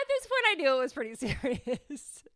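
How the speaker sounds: hushed whisper, a laugh in it; breathy confession with a laugh. Real, not acted. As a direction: whisper it like a secret dread. Dread in the vice principal's office.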